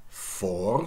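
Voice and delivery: "fortune" as for-TYOON, very drawn out; slow "fortune", long second syllable; Middle English pronunciation. Shown as a demonstration. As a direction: say "fortune" with r and y-glide. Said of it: "Middle English must be something like".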